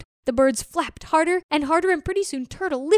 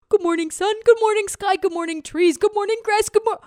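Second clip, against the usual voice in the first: higher, sing-song morning greetings; cheery turtle greeting; 7 semitones higher than usual. Acted. Turtle greeting sun, sky and trees, bright and high. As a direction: greet the world brightly, one by one.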